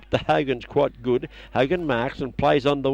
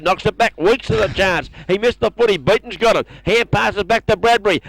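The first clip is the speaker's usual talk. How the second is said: excited call; 5 semitones higher than usual. Real, not acted. Fast-moving play called out.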